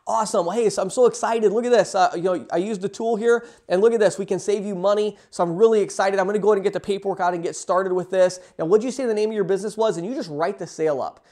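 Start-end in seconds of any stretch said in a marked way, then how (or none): 0.1-0.4 "Awesome." pitched higher and bright; excited awesome. Shown as a demonstration. College rep showing the owner a quote, excited. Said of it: "Be excited". 0.4-10.0 excited sales pitch. Shown as a demonstration. Student rep showing the savings quote to an owner, excited. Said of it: "Be excited, you know, be enthusiastic".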